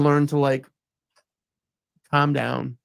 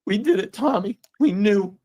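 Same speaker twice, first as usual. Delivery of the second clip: higher, choked-up retelling; moved, pitched-up recollection; emotional; 5 semitones higher than usual. Real, not acted. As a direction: voice rising with emotion as he recalls it. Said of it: "And I'm gonna get emotional".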